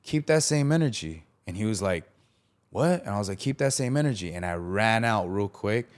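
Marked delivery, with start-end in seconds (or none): 0.0-1.2 higher-pitched, retold confrontational dare; heated warning. Teller daring a player on the court, heated warning. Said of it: "it got heated". 2.7-3.0 retold challenge. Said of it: "it got heated". 3.4-4.3 retold dare, pitched a bit higher; heated warning. Teller daring the player before running out, heated warning. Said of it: "it got heated".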